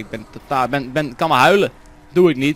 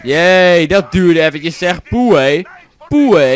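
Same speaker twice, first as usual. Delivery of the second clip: loud relieved puffing out; relieved exclaim; 7 dB louder, much slower than usual. Real, not acted. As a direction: blow out in relief. Opgelucht na gevecht. (luide opgeluchte zucht)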